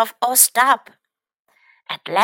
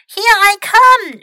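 loud, high shout downhill; 9 semitones higher, 8 dB louder than usual. Acted. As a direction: call it out as he launches. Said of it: "shouted Mac".

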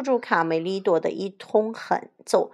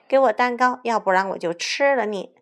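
forceful wolfish threat; threatening; 4 semitones higher, 5 dB louder than usual. Acted. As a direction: make a loud demand with menace. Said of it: "威胁小红帽". (大灰狼凶狠地威胁)

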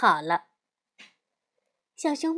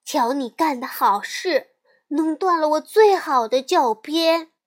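loud, cross complaint; yelling; 3 semitones higher, 6 dB louder than usual. Acted. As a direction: shout at her over the broken pointer. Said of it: "栗子嚷了起来".

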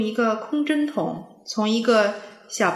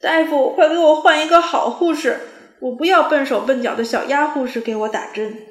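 loud, higher panicked demand; frantic shout; 5 semitones higher, 9 dB louder than usual. A narrator's reading. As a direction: yell at the doctor for a new nurse. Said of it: "一边着急地喊".

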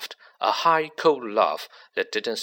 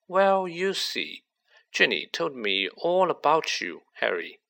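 Riddle, cold and smug; 5 semitones higher than usual. Acted. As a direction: let a cold confidence creep in under a light voice. Riddle's voice in the story.

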